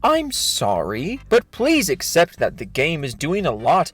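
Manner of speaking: mock-sincere, pompous reading of an apology; dramatic reading. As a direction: read it like a condescending sermon. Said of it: "This is a dramatic reading of his thread".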